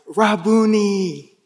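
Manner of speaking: sad and weary. Retold or imitated. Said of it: "cries out in a sad and weary voice".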